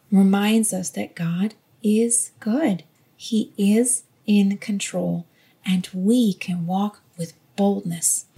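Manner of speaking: slow, gentle reminder; gentle reassurance. Shown as a demonstration. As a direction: lay a hand on their shoulder and say it slowly. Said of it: "and gently, kindly, compassionately".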